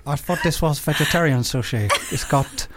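put-on South African accent. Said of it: "District nine".

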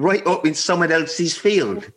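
teasing co-host as a jokey farmer; mock farmer. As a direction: lightly play a yokel farmer. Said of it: "I'm not even a farmer anymore".

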